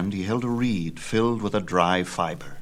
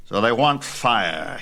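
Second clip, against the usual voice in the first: Zeus enraged. Acted. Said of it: "Zeus was full of rage".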